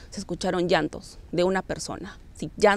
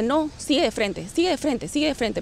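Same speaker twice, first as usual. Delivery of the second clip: higher-pitched urgent inner voice, mildly scared; voz muy asustada; 5 semitones higher than usual. Retold or imitated. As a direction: imitate a frightened voice urging onward. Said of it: "pero muy asustada esa voz". (voz interior asustada e insistente)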